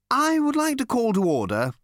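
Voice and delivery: high, genial chairman's opening; pleasant. A narrator's reading. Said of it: "he said pleasantly".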